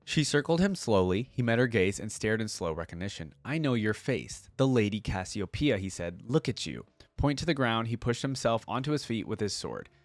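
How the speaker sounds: measured storyteller's read; audiobook-style narration; story narration. A narrator's reading. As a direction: read the tale aloud with deliberate phrasing. Reading story aloud.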